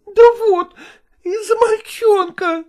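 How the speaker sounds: a bruised wife near sobbing; tearful mother. Acted. Mother tearfully explaining to the lodgers, high and crying. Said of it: "слезливо объясняла Марья".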